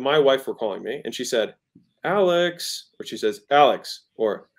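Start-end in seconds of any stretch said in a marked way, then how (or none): 2.0-2.9 higher, drawn-out sing-out of a name; playful and happy. Shown as a demonstration. Wife calling husband on the phone, playful and happy. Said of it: "one is, uh, playful and happy". 3.5-4.0 louder, falling call of a name; what's-going-on call. Shown as a demonstration. Wife calling husband, wanting to know what's going on. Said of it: "Hey, what's going on?".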